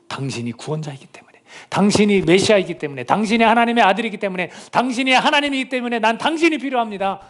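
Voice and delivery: acted cry of need, pitch climbing phrase by phrase; crying out to Jesus. Preacher voices the blind beggar calling on Jesus, crying out. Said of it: "부르짖는 거예요".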